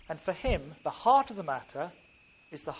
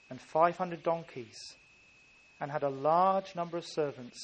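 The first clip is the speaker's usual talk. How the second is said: scripture reading. Acted. Pastor reading Job to the congregation, measured scripture voice. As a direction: let each verse land with weight. Reads Job chapter one.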